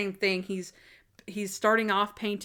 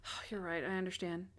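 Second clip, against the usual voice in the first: mock meek; 3 semitones lower, 12 dB quieter than usual. Natalie retold, meek agreement.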